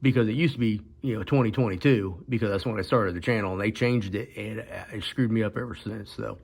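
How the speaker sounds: talking with missing front teeth and stitches; speech slurred by fresh stitches. Real, not acted. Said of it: "I apologize if I'm talking funny".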